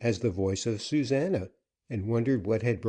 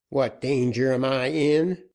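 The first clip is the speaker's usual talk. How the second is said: angry demand; 4 semitones higher, 5 dB louder than usual. Acted. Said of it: "was the angry demand".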